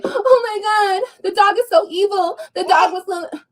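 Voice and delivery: high, very slow whiny wail, hammed up; mock whining. Mocking a hater who provoked her, hammed-up high whine. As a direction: play the crybaby who got bitten after starting it. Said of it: "And then you wanna cry".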